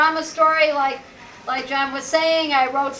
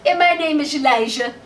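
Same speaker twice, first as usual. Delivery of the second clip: hammed-up diva voice with a lisp, shingle for single; a fading star lisping her way through a cabaret patter; famous diva impression. Singer thanking the front row, mock diva lisp. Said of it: "I heard her talking, she said".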